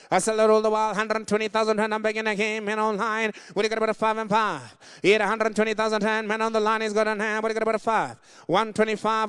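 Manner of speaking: rapid rolling auction patter; auctioneer calling bids. Acted. Auctioneer chanting bids to the floor and online, brisk patter.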